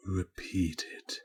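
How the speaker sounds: cold quiet demand to the newsreader; quiet command. Acted. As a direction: command it barely above a breath. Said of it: "and quietly mandated".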